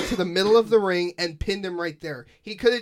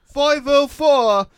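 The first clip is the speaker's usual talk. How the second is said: much louder, higher, drawn-out announcer shout; commentator call; 7 semitones higher, 10 dB louder, much slower than usual. Retold or imitated. Imitating commentators calling the move, drawn-out shout. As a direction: belt it out slowly like a ringside call. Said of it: "I heard them say the five oh".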